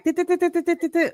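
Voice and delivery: high, quick staccato dits; imitating fast-paced energy with staccato dits; rapid dit sounds. Shown as a demonstration. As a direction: rattle off high quick dits like a machine gun. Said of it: "we're very, like".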